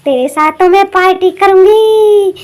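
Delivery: slow, drawn-out menacing witch. Acted. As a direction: savour the threat like a hungry witch. Witch gloats.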